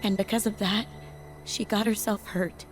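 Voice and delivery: regretful confession. Acted. Confessing the accident.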